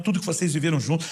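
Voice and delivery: ordinary delivery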